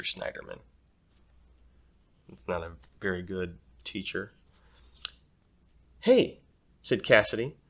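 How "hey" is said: put-on bossy girl. Cassidy calls classmates.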